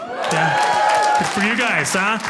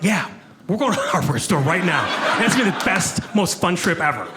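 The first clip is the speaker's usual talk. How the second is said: Scottish accent. Shown as a demonstration. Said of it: "talking like that".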